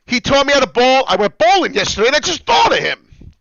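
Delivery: high, loud grieving yell. Real, not acted. Telling viewers about the coach who taught him bowling, real yelling. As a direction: let the loss burst out at full volume. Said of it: "Sorry for yelling".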